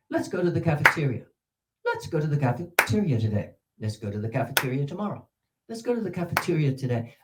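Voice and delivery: cafeteria inside the sentence, te syllable still highest; stress in a sentence. Shown as a demonstration. Teacher modelling cafeteria stress within sentences. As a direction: keep the te of cafeteria on top in the phrase. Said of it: "listen to the highest syllable".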